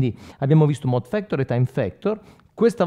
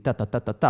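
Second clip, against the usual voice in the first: repeated "ta" like delay echoes; imitated delay repeats. Shown as a demonstration. Teacher showing how delay repetitions sounded, imitated echo repeats. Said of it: "le ripetizioni che davano un delay".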